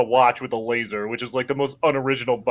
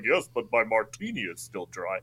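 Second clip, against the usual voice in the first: mock Bond quip; 4 semitones lower, 9 dB quieter than usual. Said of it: "And he's like".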